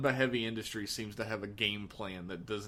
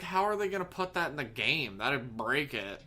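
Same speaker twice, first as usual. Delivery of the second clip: put-on Valley girl voice; 3 semitones higher than usual. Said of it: "That was my impression of Mike's".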